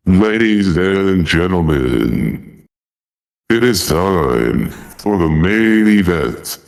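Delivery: stadium announcer calling out. Shown as a demonstration. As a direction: introduce the main event like an arena announcer. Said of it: "And then here is the announcer voice".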